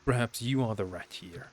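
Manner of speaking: mock her brother sweetly and cruelly; taunting sister. Sister character keeps taunting.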